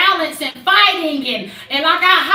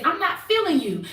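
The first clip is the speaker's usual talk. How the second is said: softer, level "I'm not feeling you"; calm, flat statement; 5 dB quieter than usual. Shown as a demonstration. Woman demonstrating to friends she isn't aggressive, softly. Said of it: "I can say it just like this".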